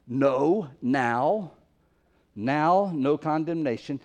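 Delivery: "No" and "now" each set apart as single stressed words; separate, weighty beats on "No, now"; emphatic. Shown as a demonstration. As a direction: punch "Now", then state "no condemnation". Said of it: "this word also is emphatic".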